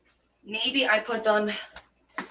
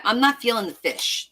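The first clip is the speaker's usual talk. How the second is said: ordinary talk, nothing marked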